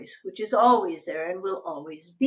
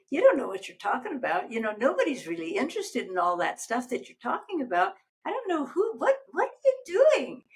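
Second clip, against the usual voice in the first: mocking inner critic; 4 semitones higher than usual. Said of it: "she would say to me".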